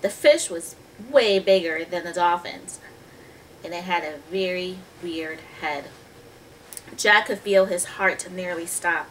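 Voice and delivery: put-on measured storybook reading to children; story narration. A narrator's reading. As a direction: read the tale clearly, stretching key words. Reads the story aloud.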